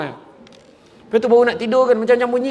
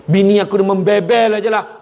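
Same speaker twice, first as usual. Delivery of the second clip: louder, raised grumble; grumbling husband; 5 semitones higher, 5 dB louder than usual. Acted. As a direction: complain about the nagging wife. (suami merungut kuat)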